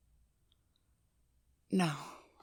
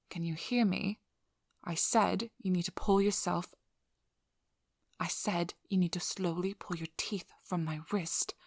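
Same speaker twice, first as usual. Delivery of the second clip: louder, urgent repeated order; stern and raised, stressing the key words; firm insistence; 4 dB louder than usual. Acted. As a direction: press the command on someone who isn't listening. Not obeyed, repeats the order firmly.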